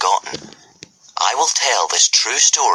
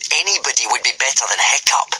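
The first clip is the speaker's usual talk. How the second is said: a mild sneer, lifted higher; bully sneering at Hiccup; 5 semitones higher, faster than usual. Acted. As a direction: scorn the weakling. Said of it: "sneered Snot-Faced Snotlout".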